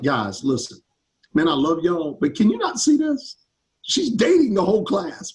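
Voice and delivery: imitated plea to friends, pitch climbing on the question; mock-exasperated appeal. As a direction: reason with them, then rise into mild disbelief. Acted plea to the guys.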